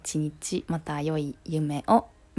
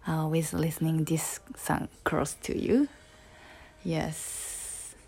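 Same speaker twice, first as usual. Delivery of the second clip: whisper; 5 dB quieter, slower than usual. Real, not acted. Sleepy whispered sign-off.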